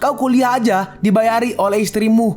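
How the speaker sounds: mocking sneer. Liu Shan mengejek pria miskin.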